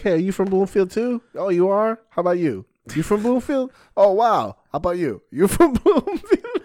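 high, loud, overeager host voice; frantic fake-cheery crowd work. Nervous comic quizzing tables about Bloomfield, high and frantic. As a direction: fake delight, pushing each question up and loud. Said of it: "I'm like".

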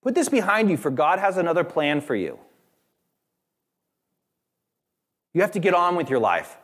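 a high brush-off of someone's grief; mock pious advice. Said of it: "he said this was not helpful".

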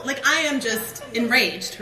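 half-laughing complaint at God, rising to a peak then settling; exasperated rant. Retold or imitated. Speaker retelling her complaint to God, laughing exasperated whine. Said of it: "I felt like".

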